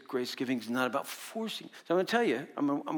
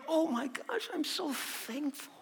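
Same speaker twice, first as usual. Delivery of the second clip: gushing thanks; 14 semitones higher, 4 dB quieter, slower than usual. Retold or imitated. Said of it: "I was like".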